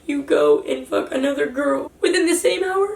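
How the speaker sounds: high-pitched, upset retold outburst; mild re-enacted yell. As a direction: demand an answer, reliving the argument. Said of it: "I was yelling at him".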